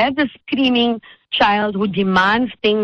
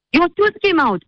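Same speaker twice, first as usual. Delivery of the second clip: much higher, gasping and tearful; crying child; 9 semitones higher than usual. Retold or imitated. Frightened boy crying to the host about her tooth, tearful and high. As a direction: squeak it out like a shocked, weepy little boy. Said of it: "he started crying".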